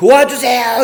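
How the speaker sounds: very high, loud, desperate shout. Retelling a joke about a man hanging from a branch: imitating a shout for help. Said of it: "이렇게 소리를 쳤어요".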